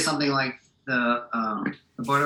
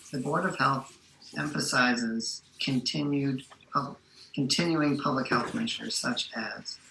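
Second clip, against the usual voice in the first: slow dictation; slower than usual. Shown as a demonstration. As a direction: repeat it slowly, word by word, for the note-taker. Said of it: "What, what did you say".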